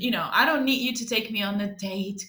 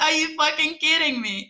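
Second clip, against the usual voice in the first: disbelieving, louder and higher; incredulous; 5 semitones higher, 4 dB louder than usual. Retold or imitated. Told he's taking her to his place, incredulous outrage. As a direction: react in shock at the invite. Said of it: "I was like".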